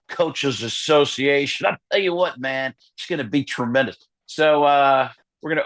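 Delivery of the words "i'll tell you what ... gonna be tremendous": light coach hype; Gruden voice. Retold or imitated. Gruden plugging the fired coaches, lightly voiced. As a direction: gush like a football coach.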